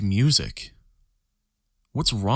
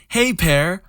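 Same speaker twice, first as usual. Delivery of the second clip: high, loud cartoon orange voice; Annoying Orange voice; 9 semitones higher, 4 dB louder than usual. Recalling Annoying Orange, a high loud cartoon squeak. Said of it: "Or like".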